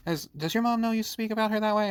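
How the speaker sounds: high, fast imitation of an affronted teacher; offended substitute teacher. Substitute teacher confronting a joking student, mock offended. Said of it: "she got all offended about it".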